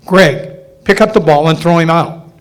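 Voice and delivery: loud call across the field. Retold or imitated. T-ball coach yelling to his injured son to make the throw. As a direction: yell instructions to the boy in the infield.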